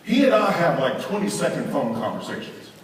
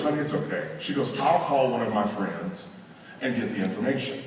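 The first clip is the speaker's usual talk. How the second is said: softer, acted reconciliation; cooled down; 5 semitones lower, 6 dB quieter than usual. Wife accepting husband's apology, softly cooled down. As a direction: let him off gently and softly. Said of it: "time to cool down".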